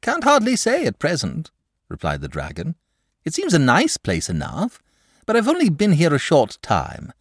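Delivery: high, chatty dragon voice; a lazy, cheerful dragon confiding; genial dragon. Acted.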